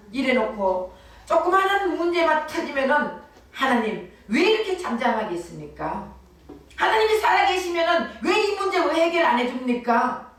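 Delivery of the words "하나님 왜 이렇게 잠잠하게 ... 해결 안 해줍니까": 원망하는 기도 흉내. Retold or imitated. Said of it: "이러면서 하나님 앞에 원망하는 거".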